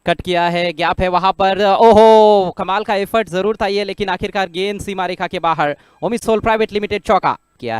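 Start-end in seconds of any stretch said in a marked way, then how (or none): 1.7-2.5 loud ooh of amazement; excited exclamation. Real, not acted. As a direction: gasp out loud at the effort. Boundary shot exclamation. (उत्साहित आश्चर्य)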